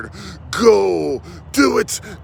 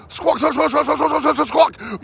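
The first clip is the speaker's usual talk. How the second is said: squawking like a parrot, pitched up; mock bird squawks; 8 semitones higher than usual. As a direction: imitate a noisy bird, mocking. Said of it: "you're always squawking".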